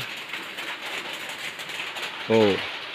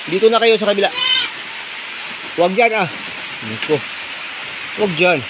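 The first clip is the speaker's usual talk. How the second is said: calling to goats; 5 semitones higher than usual. Real, not acted. Directing goats loudly.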